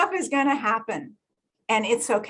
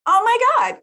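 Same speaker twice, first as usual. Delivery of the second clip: mock astonishment; 11 semitones higher, 6 dB louder than usual. Reacting to fifteen-year roof.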